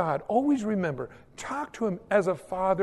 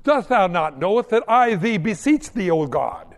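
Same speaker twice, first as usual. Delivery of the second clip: mock pompous prayer; 4 dB louder than usual. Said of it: "use words that you don't really even understand".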